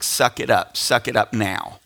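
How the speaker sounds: low, firm dad's command; understated stern father; retold stern order. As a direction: tell a child to pull together, voice dropped low. Dad retells ordering crying daughter.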